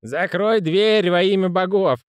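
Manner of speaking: high, slow groaning plea. Acted. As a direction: moan it out in despair. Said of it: "простонал Слепень".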